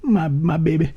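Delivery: high, soft cooing imitation; doting partner. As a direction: fuss tenderly over a patient in mock falsetto. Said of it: "she loves me, man".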